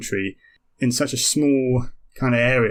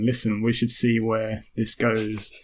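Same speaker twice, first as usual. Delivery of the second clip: cautious kernel voice; slower than usual. Acted.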